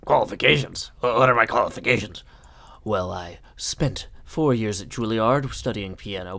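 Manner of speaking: put-on English accent, questions loud; mock-British theatrical delivery; attempted English accent. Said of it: "better than my English accent".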